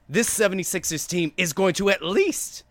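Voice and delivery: rising debate-host windup before the big claim; pushy hot-take setup; Stephen A build-up. Acted. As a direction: lean in and hold the tension. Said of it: "I was gonna go Stephen A on this".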